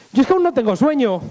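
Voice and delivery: innocent, lightly put-on dimwit voice; clueless Beni. Beni tells the blonde he is not sleepy, innocently dim. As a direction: protest innocently, missing the hint. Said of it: "mi amigo el Beni".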